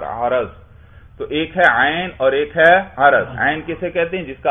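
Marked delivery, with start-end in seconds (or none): 0.0-0.5 عرض with short "a" after both ain and ra; fatha on ra. Shown as a demonstration. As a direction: say عرض as "a-raz", ra voweled with fatha. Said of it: "عین پر بھی زبر پڑو اور را پر بھی زبر". (عرض، عین اور را دونوں پر زبر کے ساتھ)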